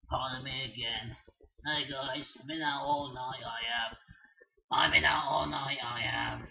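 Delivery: deep, tired cartoon bird; low grumpy bird voice. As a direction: grumble it low and weary. Voices the Red Angry Bird.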